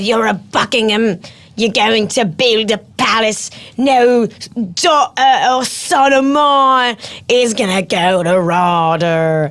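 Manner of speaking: slow, stern posh English father; a lightly voiced strict father. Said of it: "and he said".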